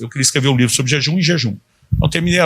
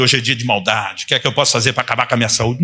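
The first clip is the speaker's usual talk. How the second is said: mock grumbling. Preacher voicing an imagined morning complaint to himself, mock grumbling. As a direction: lightly imitate someone grumbling through a rushed complaint.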